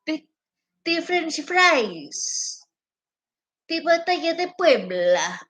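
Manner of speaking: sing-song parody of a politician; mock politician voice. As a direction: ham up her speech, dragged out. Mocking imitation.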